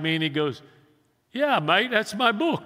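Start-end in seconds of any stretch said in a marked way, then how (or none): 1.3-2.6 lightly imitated British man, pitched up; higher voice with a hint of British accent. British man claiming his book from a stranger, lightly mimicked British accent. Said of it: "in his British accent".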